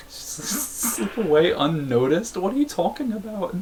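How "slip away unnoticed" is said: slow sneaky whisper. Pretend. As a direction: breathe it out like sneaking off. Reads a sneaky dialogue option.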